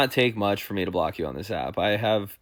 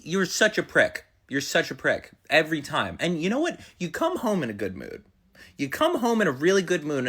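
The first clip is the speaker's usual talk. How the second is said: acted marital quarrel; 4 semitones higher than usual.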